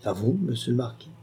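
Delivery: étonnement feint. Acted. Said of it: "avec un étonnement plein de naturel".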